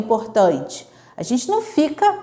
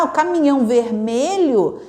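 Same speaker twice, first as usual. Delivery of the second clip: correcting gently; 2 semitones higher than usual. Retold or imitated. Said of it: "Aí você fala".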